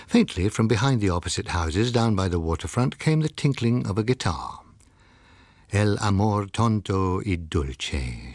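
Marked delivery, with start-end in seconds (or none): 5.7-8.3 slow, wistful sigh. Acted. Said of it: "she sighed".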